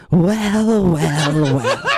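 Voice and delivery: mock villain voice. The creator persona speaks.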